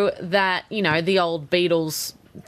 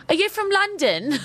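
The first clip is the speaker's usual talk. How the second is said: much higher, laughing as you ask; impressed bouncer lady; 13 semitones higher than usual. Retold or imitated. Nashville door lady to the fiance, high laughing gush. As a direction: gush at him through a laugh. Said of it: "And the lady goes".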